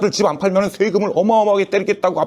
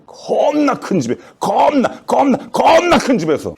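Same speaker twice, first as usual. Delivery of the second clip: higher, louder hammed-up sob; mock crying; 8 semitones higher, 4 dB louder, slower than usual. Doctor mocking the president's big house, fake crying. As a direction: wail it in fake tears.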